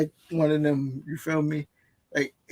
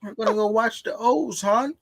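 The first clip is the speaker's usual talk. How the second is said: a light mock Baltimore accent, a bit higher; 4 semitones higher than usual. Shown as a demonstration. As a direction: lightly imitate a Baltimore local saying hon. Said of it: "That's how they talk".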